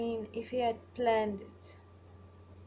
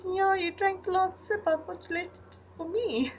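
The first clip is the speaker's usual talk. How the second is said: playful complaint; 11 semitones higher, 7 dB louder than usual. Retold or imitated. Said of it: "And I'm like".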